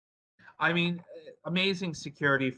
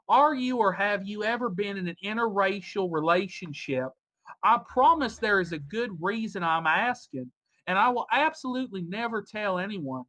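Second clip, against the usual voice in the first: put-on Southern accent; 3 semitones higher than usual. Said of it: "I can do a Southern accent".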